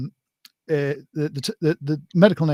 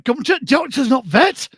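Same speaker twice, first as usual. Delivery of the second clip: slow, higher northern punchline; northern accent; 8 semitones higher, 5 dB louder, slower than usual. Acted. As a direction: drag out the joke in northern accent. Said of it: "conjured up your inner northerner".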